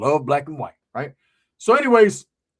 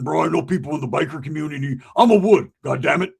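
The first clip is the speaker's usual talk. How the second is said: a sudden loud, proud declaration; loud boast; 4 dB louder than usual. Retold or imitated. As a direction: puff up and announce it. Roach boasting about biker connections.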